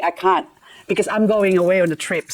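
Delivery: ordinary delivery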